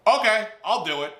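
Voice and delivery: put-on eager young self. Eager son accepts job.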